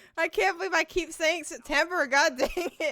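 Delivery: very high voice, laughing through tears. Laughing at yourself over a repeated slip, laughing to the point of tears. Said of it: "Every time I laugh at myself, I just start crying".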